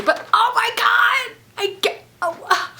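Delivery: high breathy whisper of amazement; excited whisper. Real, not acted. Vlogger reading the fan's note, whispering in awe. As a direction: whisper it, thrilled. Overwhelmed by gifts.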